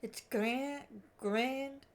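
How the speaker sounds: put-on halting amateur Aussie accent; Australian accent attempt. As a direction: work through it in a tentative Australian accent. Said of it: "five minutes of attempting the Australian accent".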